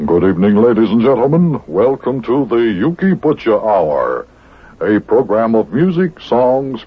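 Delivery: smooth, measured announcer delivery; radio announcer voice. Acted. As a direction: present it like a radio host. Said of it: "I'll just use my radio announcer's voice".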